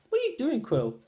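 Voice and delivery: high, startled question to Quill; surprised call. Retold or imitated. Friend catching Quill dancing, high startled question. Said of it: "and I was like".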